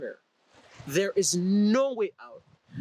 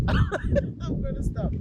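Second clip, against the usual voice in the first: much higher, slow, through laughter; giggling at himself; laughing; 4 dB louder, slower than usual. Real, not acted. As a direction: laugh as you give up the bit. Laughing off his accent bit.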